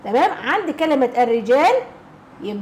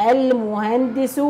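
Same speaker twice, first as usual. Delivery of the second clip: slow emphasis; much slower than usual. Shown as a demonstration. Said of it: "teacher models the answer".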